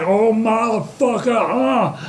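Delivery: hammed-up curse of dismay; mock exasperation. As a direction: groan it out as the thwarted fighter. Joe's acted exasperated reaction.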